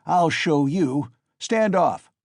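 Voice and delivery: high, slow, loud raging cry; frantic scream. A narrator's reading. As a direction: scream it, beside himself. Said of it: "Mikolka screamed frantically".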